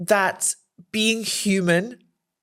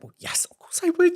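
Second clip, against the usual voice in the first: higher, eager "of course I would"; eager reply; 11 semitones higher than usual. Retold or imitated. Asked to meet the Prime Minister, a higher eager yes. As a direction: jump at the offer, thrilled. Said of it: "I was like".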